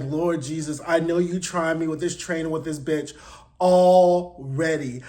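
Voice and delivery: weary prayer under her breath, stretching the final word; exasperated June. Retold or imitated. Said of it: "take these deep breaths and be like".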